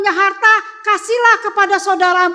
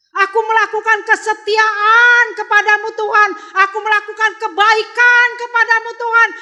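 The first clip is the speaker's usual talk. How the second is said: high, loud pleading through tears; crying and shouting; 6 semitones higher, 4 dB louder than usual. Acted. Hizkia begs God for his life, loud tearful plea. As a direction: beg God loudly, nearly wailing. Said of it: "dia menangis teriak".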